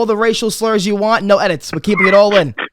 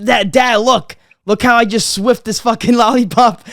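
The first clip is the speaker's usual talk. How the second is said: put-on proud kid; 4 semitones higher than usual. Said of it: "I'm like".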